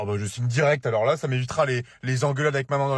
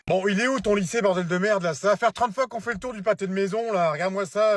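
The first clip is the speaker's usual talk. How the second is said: raised, loud, impatient complaint; exasperated rant; 5 semitones higher, 4 dB louder than usual. Acted. Driver lost looking for son's school, ranting impatiently. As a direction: snap at the passenger as you circle. Lost parent rants at teenager.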